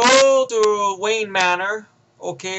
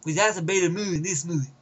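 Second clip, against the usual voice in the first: imitated Southern accent; 3 semitones higher than usual. Reviewer showing how the actor talks, imitated Southern accent. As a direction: mimic a Southern-accented film character. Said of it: "That's what he's talking like".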